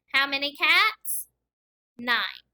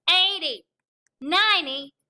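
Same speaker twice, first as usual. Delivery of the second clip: energetic counting; 3 semitones higher, 5 dB louder, slower than usual. Real, not acted. Counting by tens while touching toes.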